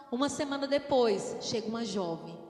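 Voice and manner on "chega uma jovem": ordinary delivery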